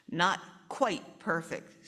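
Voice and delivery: slow, drowsy drag; sleepy father mumbling back; sleepily. Acted. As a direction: let it trail off half asleep. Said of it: "said father sleepily".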